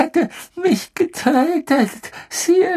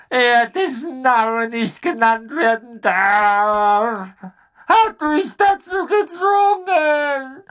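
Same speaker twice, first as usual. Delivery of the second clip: whining plea. Acted. Pettigrew pleads with Sirius.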